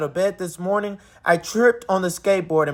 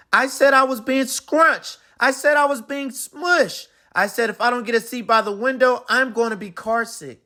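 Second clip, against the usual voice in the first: put-on higher whiny child voice; whiny complaining; 5 semitones higher than usual. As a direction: complain like a cranky kid.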